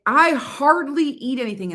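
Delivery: high-pitched mocking quote; imitating a dieter's claim. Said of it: "she was like".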